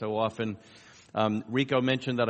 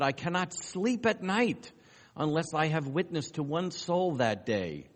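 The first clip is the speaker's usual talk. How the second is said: grimacing zealous preacher; 4 semitones higher than usual. Retold or imitated. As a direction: draw it out like a driven evangelist. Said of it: "a grimace look on his face".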